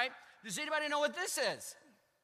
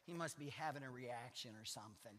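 laughing retold quote; 10 semitones lower, 13 dB quieter than usual. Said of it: "she said".

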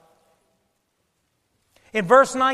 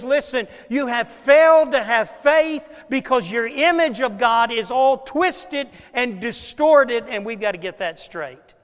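preaching rebuke; 2 semitones higher, 5 dB louder than usual. Retold or imitated. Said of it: "what he was saying is".

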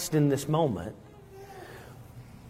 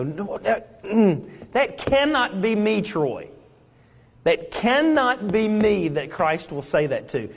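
protesting believer; 5 semitones higher than usual. Acted. Believers argue against themselves.

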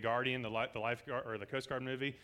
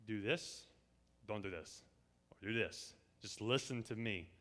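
softer, calm and slow inner voice; God's voice as gentle, softer counsel; gentle guiding voice; 4 semitones lower, 6 dB quieter, slower than usual. Retold or imitated. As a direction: speak it like a quiet guide in your ear. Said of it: "God's voice telling us".

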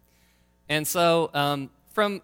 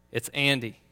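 put-on Austrian accent; 3 semitones lower than usual. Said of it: "in my best kind of Austrian accent".

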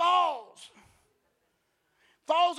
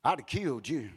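low, measured angel voice; deep deadpan angelic pronouncement; 8 semitones lower than usual. Acted. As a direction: deliver the angel's warning low and restrained. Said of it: "and the angel says".

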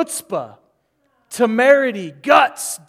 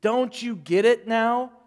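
mild frustration; 3 semitones higher, 5 dB louder than usual. Retold or imitated. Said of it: "He's frustrated".

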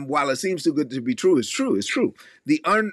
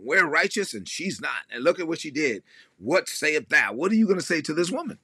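mocking accusers. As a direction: parody self-righteous accusers. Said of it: "they were like".

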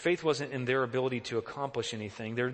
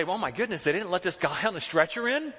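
tag; 6 semitones higher, 4 dB louder than usual. Retold or imitated. Voicing shocked people of today.

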